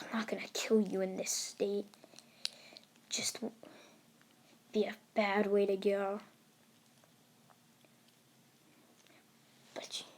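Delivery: soft, held-back menace; understated threat. Acted. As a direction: say it low and soft over a beaten foe. Hero standing over beaten foe.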